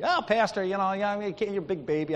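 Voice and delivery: lightly mocking imitation of a teaser; making fun. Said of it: "starts making fun of me".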